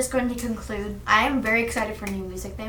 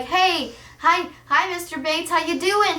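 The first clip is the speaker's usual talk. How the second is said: high, bright hello to the principal; student greeting the principal, sing-song; cheery greeting; 6 semitones higher than usual. Pretend. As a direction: greet him overly sweet. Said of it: "be like".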